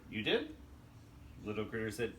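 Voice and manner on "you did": put-on surprised babysitter. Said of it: "Babysitter said".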